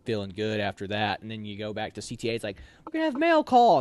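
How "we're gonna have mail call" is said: drill sergeant call. Retold or imitated. Drill sergeant announcing mail call.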